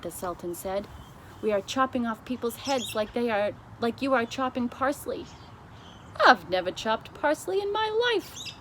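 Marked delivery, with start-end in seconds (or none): 1.4-5.2 Sultan, a little higher and cheerful; breezy boast, lightly voiced. 6.3-8.5 high, haughty retort; queen offended by the comparison; indignant queen. Acted.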